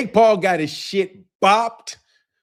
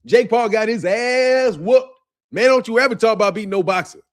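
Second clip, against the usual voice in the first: boxing commentator caricature; 3 semitones higher than usual. Acted. Streamer imitating a boxing comedian on Jake Paul's loss, comic caricature. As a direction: play the caricatured boxing comedian passing judgment. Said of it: "It's like a caricature".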